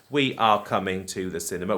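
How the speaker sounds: stiff robot voice, every word separate. Shown as a demonstration. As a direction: say it like a robot, unshortened. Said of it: "you sound a bit like a robot".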